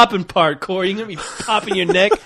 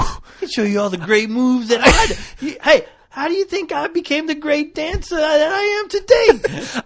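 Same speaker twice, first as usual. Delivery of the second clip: mock commercial voice; 8 semitones higher than usual. Mimics the kid commercial pitch.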